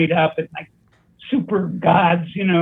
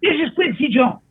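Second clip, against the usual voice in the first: lightly imitated caller, pitched up; a famous producer; 6 semitones higher than usual. Producer repeating his job offer, lightly imitated, higher. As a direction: replay the phone pitch in a higher put-on voice. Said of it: "Exactly the same thing".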